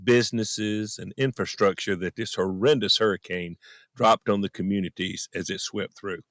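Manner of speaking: low, subdued and heartfelt; brokenhearted. Real, not acted. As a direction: speak low with real sorrow. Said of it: "how brokenhearted I am".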